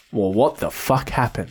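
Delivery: low, slow, soft question; retold bafflement. Friend's thought after hearing he's stable, retold bafflement. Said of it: "my immediate thought was".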